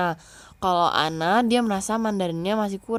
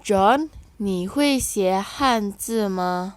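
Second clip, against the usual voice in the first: first take very slow, louder, with stress on 会; slow model reading; 5 dB louder, much slower than usual. Shown as a demonstration. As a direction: lead the class through it slowly. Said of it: "Kita baca ya".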